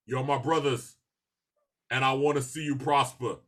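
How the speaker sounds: lightly imitated measured speech, long pause midway; halting mock-earnest dialogue, phrase by phrase; a rapper. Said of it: "it's a lot of rizza".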